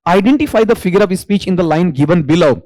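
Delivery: reads the question out slowly, word by word; dictating an exam question. Acted. Teacher reading the question to students, slow and deliberate.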